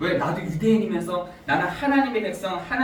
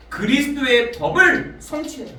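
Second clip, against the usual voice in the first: "그리스도의 법을 성취해라" proclaimed louder and higher, stress on 법을; 5 semitones higher, 5 dB louder than usual. Shown as a demonstration. Preacher proclaiming Paul's conclusion to the congregation, loud. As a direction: ring out "그리스도의 법을 성취해라" with weight on 법을. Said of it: "갈라디아서 육 장 이 절에 보니까".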